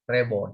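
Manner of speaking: "robot" as reh-bot; British pronunciation, imitated. Shown as a demonstration. Teacher repeating the British way for class, British pronunciation. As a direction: repeat "robot" with an eh first vowel. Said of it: "British people say robot".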